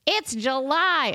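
high, drawn-out mock disbelief; hammed-up boomer indignation; outraged boomer. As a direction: complain like a scandalized boomer, stretching the words. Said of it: "you can't sound more boomer than".

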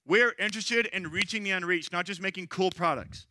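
rally the room, fired up; fired-up speaker. Retold or imitated. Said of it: "he's pretty fired up".

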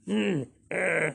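a weary sigh then a hesitant hum; reluctant sigh. Acted. Flapperjack grudgingly agreeing, sighing reluctantly. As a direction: sigh before giving in. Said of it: "this is reluctance".

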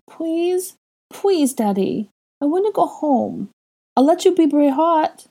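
put-on high, begging child's voice; pleading little boy. A narrator's reading. Little boy begging his father to take him home, high pleading. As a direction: beg Daddy like a small child. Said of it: "Aurelian pleaded with Draco".

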